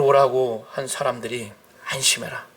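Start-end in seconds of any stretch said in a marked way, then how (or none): 1.9-2.4 reassuring. Retold or imitated. Messengers comforting the beggars.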